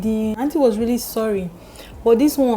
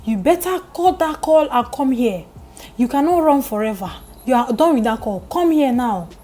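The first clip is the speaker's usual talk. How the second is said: raised, commanding auntie voice; a loud auntie snapping at a girl; stern order; 3 semitones higher, 4 dB louder than usual. Retold or imitated. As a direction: order her off the phone, loud and firm. Auntie ordering Susan out of call.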